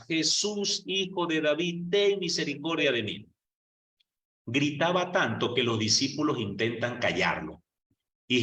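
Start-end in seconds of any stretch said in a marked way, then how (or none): 0.1-3.2 higher-pitched, restrained retold cry for help; retold shouting. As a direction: imitate a beggar crying out, held back in volume. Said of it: "Y lo gritaba".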